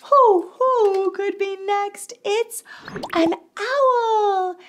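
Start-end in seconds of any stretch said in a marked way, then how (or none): 0.0-2.1 excited hooting. Acted. Owl-like hooting question.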